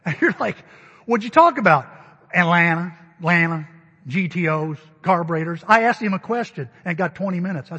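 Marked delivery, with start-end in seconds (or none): 1.0-1.9 curious question. Retold or imitated. Listener asks, loud aside. 2.3-5.6 louder, lower, rattling off his favorite topics; a gruff friend listing hobbies with gusto; Wayne's eager list. Retold or imitated.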